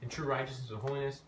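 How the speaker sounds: measured reading of scripture. Acted. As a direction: read the verse out to the group. Reads scripture aloud to group.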